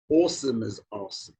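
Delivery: awesome first rounded /ɔsəm/, then open /ɑsəm/; rounded aw dropping to open ah; aw becomes ah. Shown as a demonstration. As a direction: slide from awesome with aw to awesome with ah. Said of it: "let my lower jaw relax and drop down".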